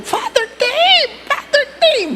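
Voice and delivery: high, excited call from afar; a woman calling out his name; calling across the street. Retold or imitated. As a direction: hail him from across the road.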